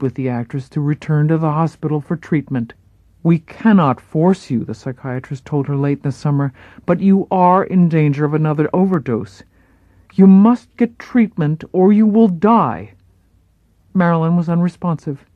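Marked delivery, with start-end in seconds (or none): 3.2-4.6 firm, louder pleading doctor; grave psychiatrist. Acted. Psychiatrist pleading with Marilyn, firm and grave. 6.9-12.9 grave psychiatrist. Acted. Psychiatrist warns of overdose.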